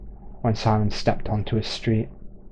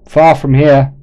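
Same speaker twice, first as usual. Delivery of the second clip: loud shout, pitched higher; 4 semitones higher, 11 dB louder, slower than usual. Acted. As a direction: send it far across the road. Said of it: "the man shouted".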